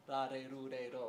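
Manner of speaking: "la, de, ru, de, do" with tongue-tap R's; even Japanese syllable drill, soft D for R. Shown as a demonstration. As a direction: recite each syllable with an R midway between L and D. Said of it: "pronounce it as a soft D".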